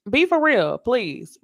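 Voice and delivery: high, loud exasperated plea; be for real, come on. Real, not acted. Host pleading with the cast, exasperated.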